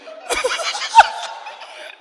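high airy burst of laughter. Real, not acted. Preacher laughing at own story.

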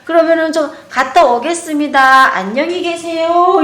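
put-on bow out like a well-mannered kid; imitating polite boy. Boy politely says goodbye. (예의 바른 아이 흉내, 천천히)

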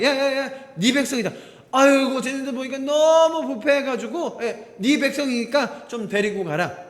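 mildly sarcastic complaint, voiced as God; half-joking exasperation, passing the blame along; 비꼬는 말투. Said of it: "조금은 비꼬시면서, 나무라시면서". (살짝 비꼬며 투덜대는 말투)

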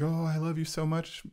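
high, gushing mock sentimentality; gushing friend. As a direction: overdo the mushy hug talk. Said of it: "it's not an emotional, like".

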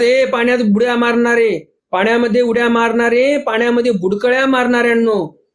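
mild mock calling out to bathers; retold announcement. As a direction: lightly imitate a crier hailing the crowd. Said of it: "पुन्हा announcement चालू करतात".

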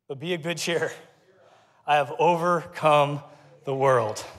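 low, deliberate, spaced-out phrases; grave, measured pronouncement; solemn scripture reading. Real, not acted. Reads comforting scripture climax slowly.

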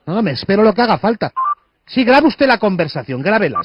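rising indignant rant; heated rant. Acted. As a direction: let the outrage build.

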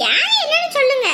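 high, loud pressing; insistent sister pressing her brother; insistent demand. Acted. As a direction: press him for the name. Sister-in-law presses loudly.

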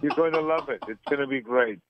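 put-on Austrian accent, Arnold-style; Austrian-accented action star interview voice; Arnold Schwarzenegger impression. Arnold impression held throughout.

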